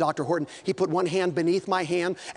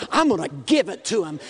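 faster, shouted resolve; rising shout; 4 semitones lower than usual. Real, not acted. Preacher vowing to preach the gospel, shouted fast. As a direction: fire it out as a battle cry. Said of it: "I started preaching".

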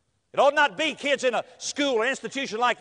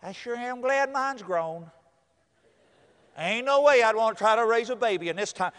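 grandmother. Retold or imitated. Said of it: "Some grandmother says".

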